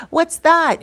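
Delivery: greedy high-pitched curiosity; nosy high question. Retold or imitated. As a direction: pounce on the shiny chain with a sharp high "what's that". Woman grabs at his chain.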